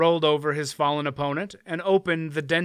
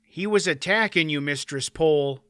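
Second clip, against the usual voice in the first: explaining smith. Acted. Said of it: "Dernick explained".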